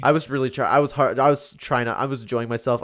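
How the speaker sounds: yawning while talking. Real, not acted. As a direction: talk through a yawn. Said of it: "my yawning".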